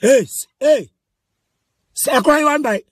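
sharp attention-grabbing shout; calling out. Acted. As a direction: call across the room to stop them. Calling out to the group.

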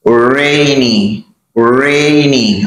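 "Rainy" said slowly and clearly for repeating. Shown as a demonstration. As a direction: model "Rainy" for the class to echo. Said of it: "Can you say it with me?".

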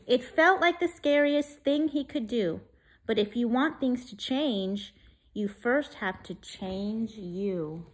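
put-on lively rhyming read-aloud for kids; story reading. A narrator's reading. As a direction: read it like a bedtime picture book. Reads rhyming picture book.

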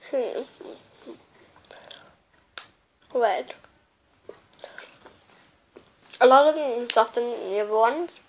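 talking with mouth full; chewing candy. Real, not acted. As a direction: between bites of sweets. Seen 1: hand brings thin stick to mouth repeatedly; chewing between bites.

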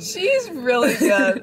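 laughing quote. Retold or imitated. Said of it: "same vibe".

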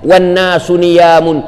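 drawn-out chanted hadith; slow Arabic recitation. Acted. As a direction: intone the Arabic slowly and reverently. (bacaan hadis Arab yang perlahan dan berlagu)

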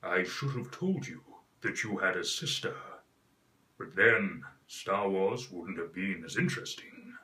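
lightly deepened film villain; Vader Mufasa voice. Shown as a demonstration. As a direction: rumble it like a grave father. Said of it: "the voice of Mufasa".

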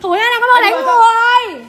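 slow, drawn-out accusation; real public outcry; calling out for witnesses. Real, not acted. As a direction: proclaim it slowly to the whole crowd. Crying out to bystanders about assault.

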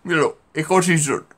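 high, laughing exclamation; amused laugh. Real, not acted. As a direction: laugh it out, delighted by the picture. Amused at a funny shape.

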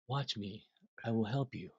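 quiet steady offer of help; calm and collected. Retold or imitated. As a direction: soothe the panicking drummer. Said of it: "he is so calm and collected".

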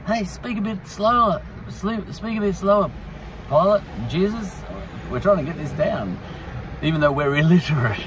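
high-pitched, strained call to the speakers; heckling listeners in gallery. Acted. Gospel writers call from gallery.

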